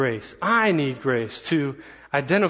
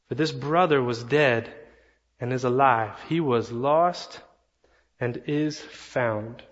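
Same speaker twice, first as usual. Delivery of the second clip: tender father; slower than usual. Acted. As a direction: let the father soothe his angry son. Father answers his son gently.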